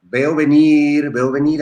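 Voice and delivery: slow, drawn-out trance voice; seance medium. Pretend. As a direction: intone it like a fortune teller in a trance. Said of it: "entre usted en trance y en meditación". (médium en trance, voz lenta de vidente)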